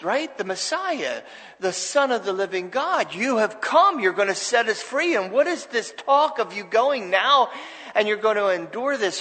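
acting out an exasperated disciple's objection; incredulous rebuke. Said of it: "He rebukes him and he says".

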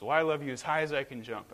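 a hint of a child bunny trying to win; little bunny. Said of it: "the little bunny says".

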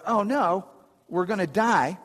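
mock panic. Preacher voicing sailors in the storm, mild mock panic. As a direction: lightly imitate sailors freaking out. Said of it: "everybody's freaking out".

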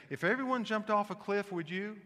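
mother's warning. Retold or imitated. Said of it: "My, my mother used to say this".

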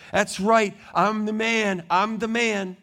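smug, self-satisfied boast; a light smug Herod. Acted. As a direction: drink in the praise. Herod basks in praise.

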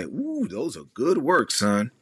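imitating mom. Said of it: "my mom will say".

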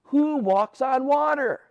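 slow, high disbelief; freaked out. Pretend. Disciples seeing a figure on the lake, freaked out disbelief. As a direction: gasp at the sight as if you cannot believe it.

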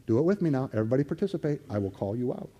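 ordinary delivery

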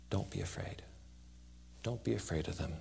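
very soft, hushed comfort; softly spoken, tender reassurance; gentle reassurance. Real, not acted. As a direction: soothe them quietly, leaving space. Preacher gently reassures congregation.

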